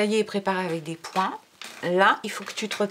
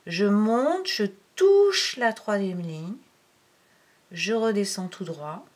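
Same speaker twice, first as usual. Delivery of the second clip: louder, stretched-out key verbs; drawn-out demonstration; 4 dB louder than usual. Shown as a demonstration. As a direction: stretch the words along with the pen stroke. Parole calée sur le tracé. (en étirant les mots, au rythme du tracé)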